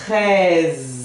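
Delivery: treize ending on Z; treize, E said open; French treize. Shown as a demonstration. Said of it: "Então eu vou pronunciar". (treize terminando no Z)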